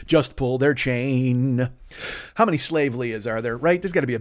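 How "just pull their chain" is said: drawn out x0.4, correcting the line; slow corrected lyric; slow lyric retry. Shown as a demonstration. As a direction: sing it slowly, fixing the lyric. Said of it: "or must pull their chain".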